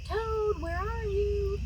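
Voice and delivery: high calling voice. A narrator's reading. Frog calling for Toad in the dark house. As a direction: call across the dark room. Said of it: "called Frog".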